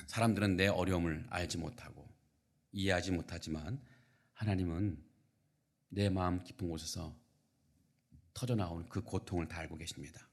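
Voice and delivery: tender reassurance. Real, not acted. Comforting those who suffer unseen. (낮고 부드럽게 위로하듯)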